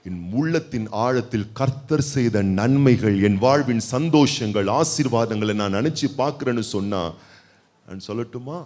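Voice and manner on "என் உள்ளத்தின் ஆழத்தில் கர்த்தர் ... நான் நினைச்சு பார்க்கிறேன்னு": prayerful confession. Shown as a demonstration. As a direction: lead the church in a gentle confession. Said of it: "எத்தனை பேர் சொல்ல போறீங்க".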